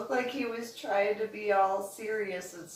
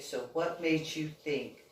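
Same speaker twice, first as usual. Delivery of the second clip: serious agent; 4 semitones lower, slower than usual. Retold or imitated. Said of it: "He got all serious".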